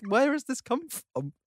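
breathless high disbelief; stunned whisper. Real, not acted. Friend stunned by a surprise clip, hushed disbelief. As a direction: gasp it out, caught off guard.

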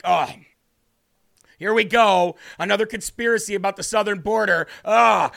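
mock dismissive liberal voice; mocking eye-roll. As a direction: scoff it like a bored heckler. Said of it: "They rolled their eyes like".

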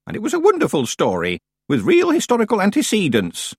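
put-on high-pitched, proud old witch; grand old storyteller. Plays Miss Treason.

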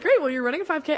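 high, loud mock-parent announcement; imitated parents. Parents telling daughter she runs a five K, imitated insistence. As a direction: hand down the order as a parent.

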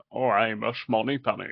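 slushy-s Scottish film star impression; Sean Connery. Shown as a demonstration. Voice actor demonstrating his key phrase, Scottish star impression. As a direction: turn each s into sh, Scottish style. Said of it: "doing kind of a Sean Connery version".

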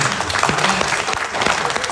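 loud joyful amen; shouted amen. Real, not acted. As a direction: call out amen with joy. Celebrating ninth hundred convert.

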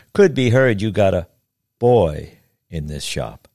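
put-on "boy" slowed and weighted apart from the rest; pointed stress on "boy". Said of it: "With the emphasis on the word boy".

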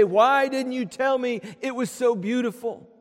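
bright, ringing cry of wonder; amazed. Pretend. Believers seeing heaven's glories, crying out in open amazement. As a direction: let the amazement burst out. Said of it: "we're gonna gasp with absolute amazement".

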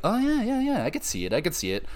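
soap opera actor. Retold or imitated. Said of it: "Early, mid-afternoon soap opera stuff".

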